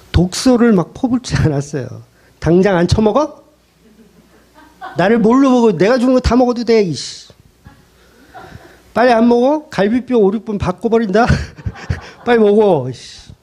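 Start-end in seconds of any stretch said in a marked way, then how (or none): 2.4-13.3 mock angry bully. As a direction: ham up a furious serpent forcing the fruit. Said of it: "이렇게 안 했다고요". (과장된 화난 협박)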